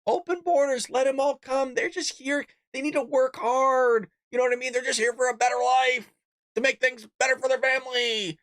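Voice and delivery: mocking. Mocking Democrats' talking points.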